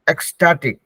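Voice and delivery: "ecstatic" as eks-TAA-tik, falling at the end; pronunciation demo. Shown as a demonstration. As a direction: teach "ecstatic" with a distinct eks opening. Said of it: "ecstatic का एक बार pronunciation देख लेते हैं".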